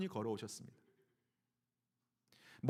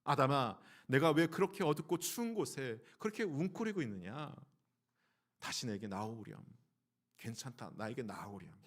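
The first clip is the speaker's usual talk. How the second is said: loving, worried father; 3 semitones lower than usual. Acted. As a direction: coax the child back out gently. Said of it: "걱정과 근심이 가득한 사랑의 하나님의 그 음성". (걱정 가득한 사랑의 아버지 음성으로)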